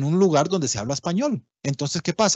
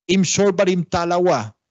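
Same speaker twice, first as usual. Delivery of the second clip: Limón Creole; 2 semitones higher than usual. Shown as a demonstration. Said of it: "O, por ejemplo".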